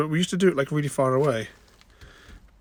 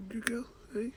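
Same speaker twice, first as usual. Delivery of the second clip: high whisper; whispered pet praise; 9 semitones higher, 8 dB quieter than usual. Real, not acted. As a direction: breathe the praise gently.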